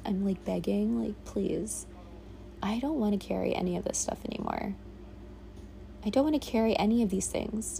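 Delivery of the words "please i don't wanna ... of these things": quiet plea. Retold or imitated. Retold plea to the universe.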